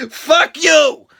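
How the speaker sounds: loud high shout of defiance; angry shout. Real, not acted. Shouting at his old bullies, angry yell. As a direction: yell it back at them. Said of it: "That's what I say to them".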